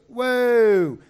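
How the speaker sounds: loud, high startled whoa. Retold or imitated. Donkey seeing the angel, startled loud whoa. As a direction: rear back in alarm. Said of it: "And the donkey goes".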